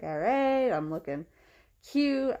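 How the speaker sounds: bright, pleased little boast; playful self-praise. Retold or imitated. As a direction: tease yourself, proud of the outfit. Playful self-quote at the zoo.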